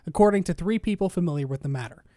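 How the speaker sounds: measured, even article-reading voice; news article read. Real, not acted. Host reads the Anthem article to co-host, news read. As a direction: read the report out evenly.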